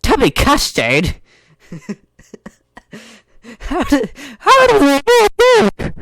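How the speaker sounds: high, loud confused squeak; high loud bewildered girl voice. Acted. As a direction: squeak out the question, puzzled and loud. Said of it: "said in a confused tone".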